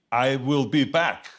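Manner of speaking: slow, deliberate machine talk, lightly done. Retold or imitated. Arnold pitches his line to director, lightly machine-like. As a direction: space out each word like a machine. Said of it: "I already talk like a machine".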